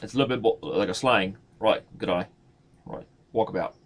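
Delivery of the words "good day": put-on New Zealand accent. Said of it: "New Zealand is a little more cut off".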